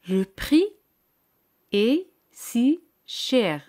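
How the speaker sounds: le prix est si cher said very slowly, word by word; slow model sentence. Shown as a demonstration. Teacher slowly models the answer for students to repeat. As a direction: spell it out slowly for learners. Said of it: "Ahora di".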